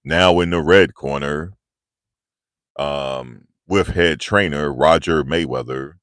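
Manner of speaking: booming fight-night intro, slow and drawn out; lightly voiced boxing announcer; ring announcer. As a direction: announce the fighter like Michael Buffer. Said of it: "when he, he announced Floyd Mayweather".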